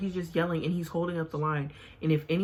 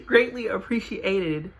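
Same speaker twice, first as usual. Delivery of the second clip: laughing retake; 4 semitones higher, 7 dB louder, slower than usual. Real, not acted. Retrying her flubbed sign-off line to viewers, laughing. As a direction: redo the phrase slowly and louder, still laughing. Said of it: "I don't know what other word I just said".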